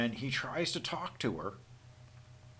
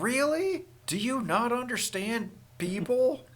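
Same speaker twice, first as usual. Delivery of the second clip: high, disbelieving retort; mock outraged disbelief; incredulous rant; 7 semitones higher, 4 dB louder than usual. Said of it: "He's like".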